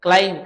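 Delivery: క్లైంబ్ said as "klaim", ending on m with no b sound; silent b. Shown as a demonstration. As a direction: say క్లైంబ్ with the final బ్ left silent. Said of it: "బి pronunciation మనం పలకకూడదు".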